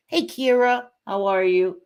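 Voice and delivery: high, sing-out greeting; excited hello. Real, not acted. Streamer calling to a friend in the chat, excited hello. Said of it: "Sorry, I'm screaming".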